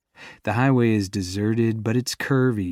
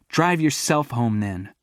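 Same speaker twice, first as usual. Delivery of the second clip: haughty. Acted. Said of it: "with a haughty".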